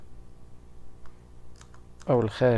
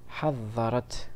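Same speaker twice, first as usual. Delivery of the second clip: حضرت drawn out very slowly; slow demonstration; much slower than usual. Shown as a demonstration. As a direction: sound out حضرت slowly so pupils hear the open taa. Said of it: "لاحظ،". (نطق بطيء لكلمة حضرت لإبراز التاء المفتوحة)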